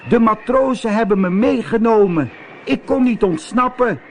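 high, loud cat voice crying out; cat yelling from the mast; cat shouting. A narrator's reading. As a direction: shout up to the witch. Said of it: "schreeuwde Zwervertje".

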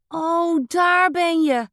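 put-on boy finds the ghost in the wall, calling out in triumph; triumphant call. A narrator's reading. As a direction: shout it like you won the game. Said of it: "roept hij".

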